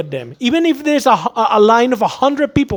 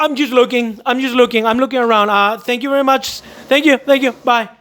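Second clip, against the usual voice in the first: brush-off customer; 3 semitones higher than usual. Retold or imitated. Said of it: "they're gonna say".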